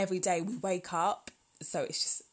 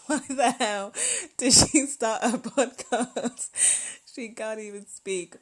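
1 mock listener jeer; 5 semitones higher, 7 dB louder than usual. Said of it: "You guys are gonna be like".

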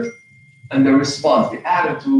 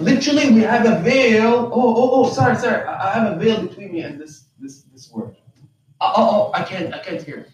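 mock sarcastic; 3 semitones higher than usual. Mockers telling the Quran they can't hear, sarcastic. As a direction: lightly act out playing dumb, stammering excuses. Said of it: "They're being sarcastic".

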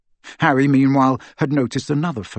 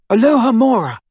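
high, loud incantation; casting a spell; 11 semitones higher, 8 dB louder than usual. A narrator's reading. Hermione unlocks the door with her wand, incanting. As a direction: call the spell out with force.

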